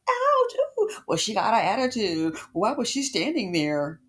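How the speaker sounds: mock indignant woman. Woman run over complaining, mock offended squeal. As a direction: imitate a woman huffing about the foot-roller. Mocking a rude woman's reaction.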